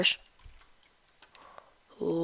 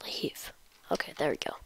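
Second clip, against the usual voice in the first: quiet at night; 3 semitones lower, 6 dB quieter than usual. Real, not acted. Whispering late at night.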